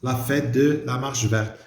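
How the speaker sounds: La fête de la marche verte read very slowly; slow, spelled-out dictation pace. Shown as a demonstration. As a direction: dictate each word slowly for the class. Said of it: "dictating sentence slowly".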